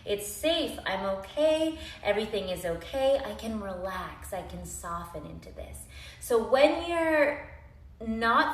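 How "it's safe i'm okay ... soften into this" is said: soft, sighing relief; relaxed calm voice. Pretend. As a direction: let it all melt away. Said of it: "our nervous system is like".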